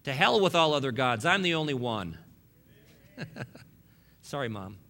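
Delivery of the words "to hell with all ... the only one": voicing God. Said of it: "God says".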